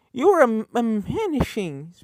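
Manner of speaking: excited shout. Acted. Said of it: "Pinkie shouted".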